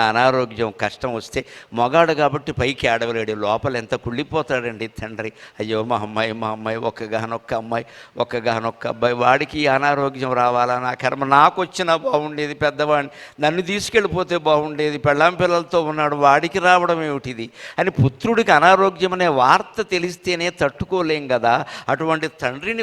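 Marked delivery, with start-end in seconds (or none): 5.6-17.5 father's lament. Acted. Father's lament voiced quietly.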